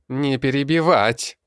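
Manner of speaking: high loud goblin bark. A narrator's reading. Goblin shuts the old man up, high and loud. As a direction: snap him silent. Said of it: "рявкнул Зелёный".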